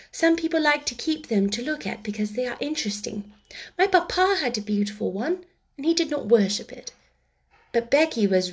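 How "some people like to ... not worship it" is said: higher, lightly voiced little girl; a hint of a prim child; reasoning young girl. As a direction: explain gently in a girl's higher voice. Voices Sarah answering Becky.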